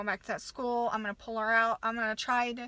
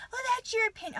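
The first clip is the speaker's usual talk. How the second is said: mocking principal; 9 semitones higher, faster than usual. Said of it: "the principal".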